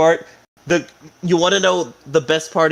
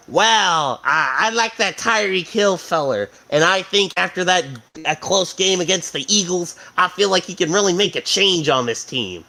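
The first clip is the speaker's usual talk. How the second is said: folksy team-owner impression, pitched up; Jerry Jones; 4 semitones higher than usual. Team owner asking Miami about a player, hammed-up impression. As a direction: put on a higher, drawling owner's voice. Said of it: "Jerry Jones pulls up to them, and he goes".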